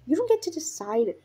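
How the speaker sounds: cross, emphatic put-down; spat retort. Acted. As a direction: spit it out as a rebuke. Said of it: "Speckled Cloud spat".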